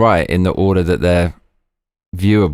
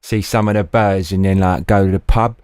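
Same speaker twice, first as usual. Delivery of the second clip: mock Cockney accent. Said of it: "this thick Cockney accent".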